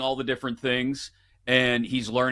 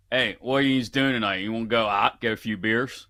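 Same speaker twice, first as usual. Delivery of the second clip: Pittsburgh accent. Shown as a demonstration. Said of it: "You know, like".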